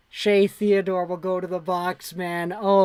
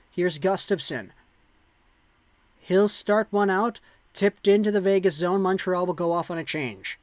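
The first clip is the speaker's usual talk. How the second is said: live play-by-play. Acted.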